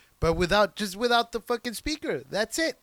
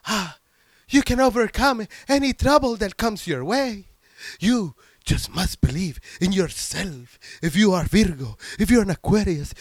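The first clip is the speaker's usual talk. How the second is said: louder, grand mystic encouragement; a hint of a flamboyant TV astrologer; imitating the psychic; 5 dB louder than usual. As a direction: TV astrologer inspiring viewers, grand sweeping voice. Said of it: "he was all like".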